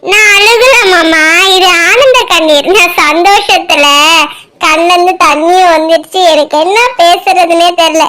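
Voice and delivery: choked-up, denying the tears; mildly weepy, passing it off as joy; tearful. Acted. Girl tells uncle they are happy tears, mildly tearful. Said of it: "ஏன் அழுகுற மாதிரியே பேசுற?".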